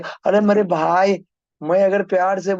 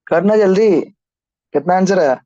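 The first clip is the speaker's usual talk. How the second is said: louder, impatient demand; impatient call; 6 dB louder than usual. Real, not acted. Teacher pressing students for the answer, louder and impatient. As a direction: bark at the class to hurry.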